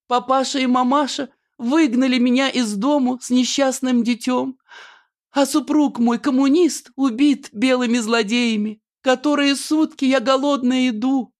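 high melodramatic lament; high, hammed-up village heroine lament; Annushka's lament. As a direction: wail the hard-luck story, high and theatrical. Annushka laments her fate.

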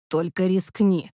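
a hint of a hiss, slow; slow mild threat into her ear; a touch of menace, slow. A narrator's reading. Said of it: "прошипел на ухо".

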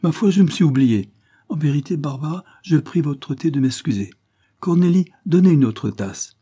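laughing. A narrator's reading. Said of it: "L'avoué éclata de rire".

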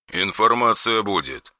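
soft, slow, emotionless monotone; deadpan meme voice. Acted. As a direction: say it with zero feeling. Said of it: "безэмоционально ответили ему".

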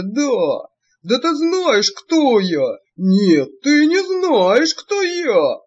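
визгливый бес, всё громче и злее; грози взахлёб, как разъярённый бес; вой беса. A narrator's reading. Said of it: "а сзади нёсся вой беса". (бес в ярости, нарастающий крик)

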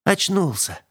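gentle exclamation with a touch of worry; tender, anxious. A narrator's reading. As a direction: greet the waking patient with worried affection. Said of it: "Необычайно ласковый, встревоженный голос".

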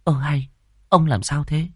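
high, indignant challenge; angry. A narrator's reading. Wife questions grumpy husband, angry. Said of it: "Bà địa chủ Lân giận".

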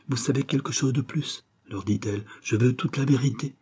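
insistent demand. Acted. Mother to two evasive visitors, insistent demand. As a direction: press them for an answer, voice lifted.

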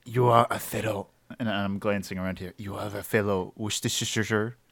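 put-on a light French accent on a koala character. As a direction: speak as Kobe the Beef, with a mild French accent. Kobe addresses the bartender in character.

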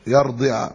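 "يرضع" said yardi', short i after the ض; kasra on ض. Shown as a demonstration. Teacher showing the Najdi present tense, "يرضع" with kasra on ض. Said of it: "بكسرها في المضارع".

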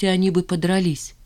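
usual speaking voice

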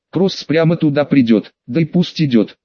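hoarse rasp from the floor. Acted. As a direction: croak it out hoarsely, lying down. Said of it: "прохрипел вагон с пола".

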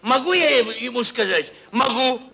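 cries out in anguish, voice rising high; anguished shout. Acted. Owner crying out to Alexei in anguish. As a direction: shout that he tore his soul out.

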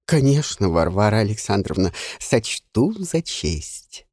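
bow and smile through it; smiling obsequious reply. Acted. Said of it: "расплылся в улыбке нотариус". (угодливо с улыбкой)

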